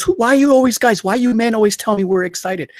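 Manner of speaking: high, loud mock indignant protest; imitating her upset outburst. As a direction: play back her outraged complaint, hammed-up. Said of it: "she was really upset".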